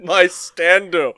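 hammed-up. Comic naming.

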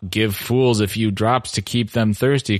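stiff, mechanical reading voice; stilted robotic voice. Shown as a demonstration. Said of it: "stilted robotic voice".

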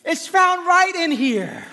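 lightly voiced God, amused; a hint of God, half-laughing; playfully voicing God's own words; God speaking. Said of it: "God is saying".

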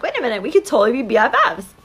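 it just clicked, she's an ally; delighted realization. Retold or imitated. Mom realizing the other mother is on her side, mildly delighted. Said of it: "I'm like".

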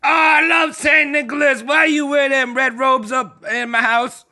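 high, excited mock yelling; a giddy fan hailing Saint Nicholas, mock shouting. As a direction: hail him like a giddy fan.

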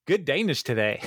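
put-on old dude greeting. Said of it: "He's like".

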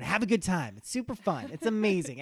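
loud and high, cheerfully yelled; mock yelling. Shown as a demonstration. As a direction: yell it at everyone, overexcited. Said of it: "Just yelling at everyone".

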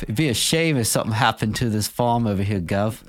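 smiling menacing loan shark. Pretend. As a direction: lean in like a friendly mobster demanding money. Mobster protection racket bit.

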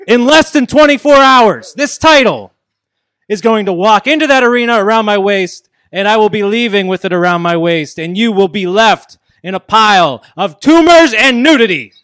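wrestling promo. Acted. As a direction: shout the title claim to the crowd. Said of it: "cut a promo on Sorg".

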